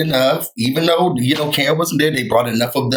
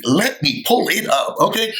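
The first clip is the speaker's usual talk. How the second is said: mock catchphrase; 6 semitones higher than usual. Shown as a demonstration. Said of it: "that's my new thing".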